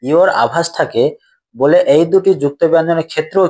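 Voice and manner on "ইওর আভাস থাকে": slow repeat for emphasis. Shown as a demonstration. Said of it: "কি?".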